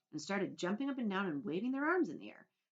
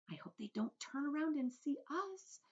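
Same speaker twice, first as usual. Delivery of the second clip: stammering; 10 semitones higher than usual. Acted. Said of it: "Miss Spider stammered".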